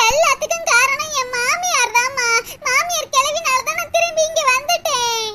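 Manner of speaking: whining through put-on tears; daughter's mock-weepy grumble; tearful complaint. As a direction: blame her weepily to your mother. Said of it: "அழுகுறத நிறுத்திட்டு என்னாச்சுன்னு சொல்லும்மா".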